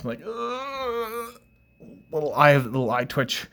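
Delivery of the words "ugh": high, quiet drawn-out groan; strained ugh. Acted. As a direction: let out a high, held-back groan. Jittery reaction to gulped coffee.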